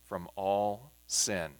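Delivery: slow, measured scripture reading with pauses. Acted. Teacher reads the passage to the class, measured scripture reading. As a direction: read the verses aloud, pausing between phrases.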